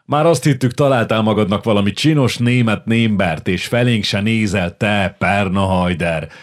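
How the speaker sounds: big hearty bellow, slowing on the insult; teasing shout at a latecomer friend, booming. Acted. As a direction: roar it across the table like a burly officer.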